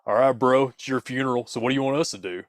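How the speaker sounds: dismissive bro scoff. Acted. IR dude scoffing at the victim, bored bro voice. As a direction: brush the caller off with a scoff. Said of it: "he scoffs and says".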